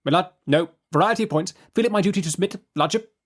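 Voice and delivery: high clipped barrister voice; slippery lawyer. A narrator's reading. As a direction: let it slide out smoothly. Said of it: "the reply that slides out of Mister Tangle".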